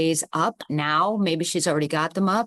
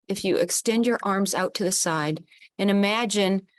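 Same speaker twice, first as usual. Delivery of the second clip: calm, steady guiding voice; guided visualization. Acted. Host guiding the group to hold hands, calmly. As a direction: lead the circle gently through the image.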